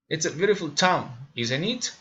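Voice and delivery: "town" falls, then "isn't it" rises; falling-rising tag question. Shown as a demonstration. Learner demonstrating tag questions, falling then rising. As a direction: drop on "town", lift the end of "isn't it". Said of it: "falling or raising intonation".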